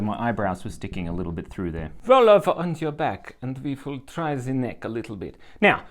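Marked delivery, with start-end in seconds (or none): 2.1-5.4 lightly imitated Slavic accent; her Polish accent. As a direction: put on the Polish masseuse's accent. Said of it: "in her accent".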